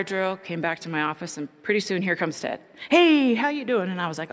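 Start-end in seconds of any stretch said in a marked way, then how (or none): 2.9-3.9 a light mock of Ted's eager hello, higher and louder; imitating Ted. Ted greets her at her office, mock high eager hello. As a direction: play Ted's bright greeting, pitched up.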